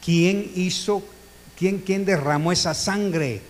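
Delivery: slow, solemn voice of God demanding; God's voice. Acted. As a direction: ask as God, slow and grave. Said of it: "viene Dios y dice". (voz de Dios, lenta y solemne)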